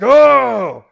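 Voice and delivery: loud, high exasperated groan of Oh!; frustrated outburst. Pretend. Preacher imagining losing patience with crowd, exasperated cry. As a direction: let out mock fed-up frustration. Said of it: "I would be so frustrated by now".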